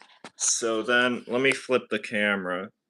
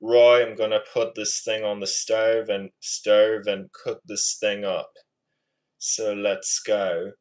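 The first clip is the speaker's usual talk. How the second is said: amateur British accent attempt. Shown as a demonstration. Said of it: "I'm better at the British accent".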